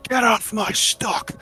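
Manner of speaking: gruff hobgoblin. Acted. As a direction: bark it like a gruff hobgoblin guarding his cart. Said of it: "gruff hobgoblin voice kind of says".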